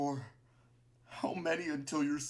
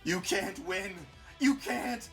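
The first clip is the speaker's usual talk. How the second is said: loud, high desperate shout; breaking voice; 10 semitones higher, 6 dB louder, slower than usual. A narrator's reading. Martlet melting in battle against Clover, breaking cry. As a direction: yell as the voice starts to break. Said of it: "Martlet's voice begins to garble and break".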